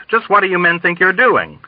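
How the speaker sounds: high, indignant demand; outraged pompous officer. A narrator's reading. Indignant officer confronts intruders.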